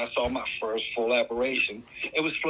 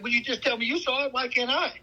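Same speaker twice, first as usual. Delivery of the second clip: indignant protest; 11 semitones higher than usual. Retold or imitated. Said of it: "I'm like".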